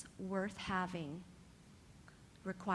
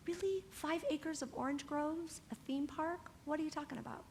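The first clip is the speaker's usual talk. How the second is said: scoffing doubter; 6 semitones higher than usual. Retold or imitated. Mocking Disney's doubters.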